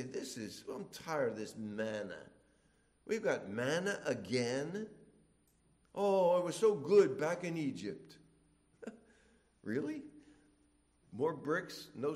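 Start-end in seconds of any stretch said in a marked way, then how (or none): 0.0-8.2 Israelites grumbling. Retold or imitated. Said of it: "And they say".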